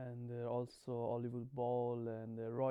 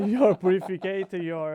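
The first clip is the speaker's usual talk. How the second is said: laughing; 5 semitones higher, 14 dB louder than usual. Real, not acted. Laughing while speaking.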